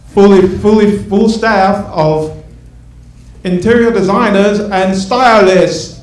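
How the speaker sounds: lightly voiced grand TV host; Robin Leach impression. TV host promising the women their afterlife, mock grand. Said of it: "That's, uh, Robin Leach for the kids".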